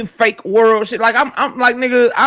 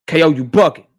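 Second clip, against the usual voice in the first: mock chatter voice; 9 semitones lower than usual. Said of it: "He say".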